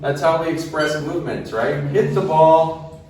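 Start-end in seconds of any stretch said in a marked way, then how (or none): 1.9-3.0 slow and clear, teacher modelling; slow model sentence. Shown as a demonstration. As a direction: say it slowly so students can copy. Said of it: "So where's the stress?".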